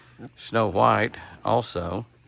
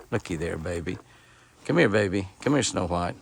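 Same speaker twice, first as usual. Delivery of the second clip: softer, coax the shy doe in; coaxing pet talk; 3 semitones lower, 5 dB quieter than usual. Real, not acted. Calling the shy doe Snow White over, soft coaxing.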